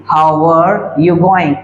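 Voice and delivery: slow, even model sentence; slow dictation. Shown as a demonstration. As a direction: read it slowly so students can repeat. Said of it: "इस तरह से".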